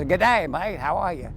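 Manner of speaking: put-on light Australian accent on a greeting; a touch of put-on Australian. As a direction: greet a mate in your best Aussie accent. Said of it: "with my best Australian accent".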